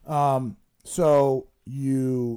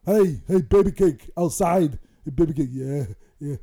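catcalling; 3 dB louder than usual. Acted. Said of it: "You can ask 'em".

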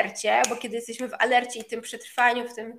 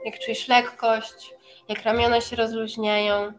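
guided meditation. Acted. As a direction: ease them into relaxation. Leads a meditation.

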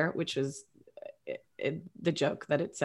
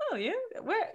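mock posh English; 13 semitones higher, 7 dB quieter than usual. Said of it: "it was more like".

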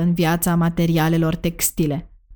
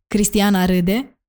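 normal talking voice

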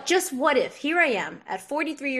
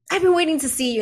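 mock ominous therapist; 7 semitones higher, 6 dB louder, much faster than usual. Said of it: "And, and, um".

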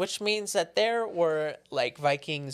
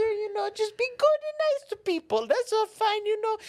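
high mock voice. Mocking a preachy voice.

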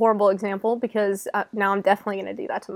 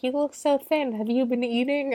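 grandma mode; 4 semitones higher than usual. Retold or imitated. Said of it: "full grandma mode now".

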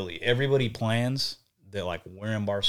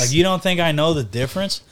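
higher, louder mock tirade; mock angry kid; 7 semitones higher, 7 dB louder than usual. Retelling snapping at his aunt, mock furious. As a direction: play the outraged kid ranting.

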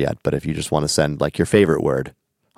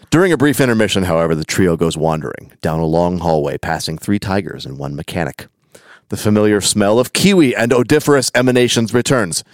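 measured read-aloud, falling away through each sentence; deliberate storybook telling; story narration. A narrator's reading.

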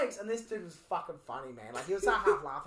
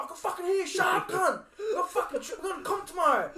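higher, laughing annoyed mate; annoyed roommate; 10 semitones higher, 5 dB louder than usual. Retold or imitated. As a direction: play the grumpy mate, laughing. Roommate complaining at night.

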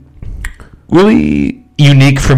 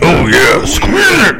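very high, crying squeal; squealing falsetto; 9 semitones higher, slower than usual. Pretend. Joking squeeze it bit.

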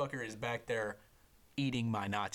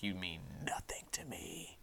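inner thought; 3 semitones lower, 7 dB quieter than usual. Retold or imitated. His silent thought toward the coach.

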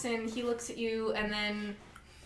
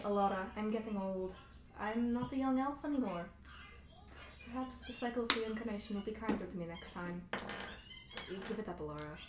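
Sylvar; 7 dB quieter than usual. Acted. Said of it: "you hear Sylvar saying".

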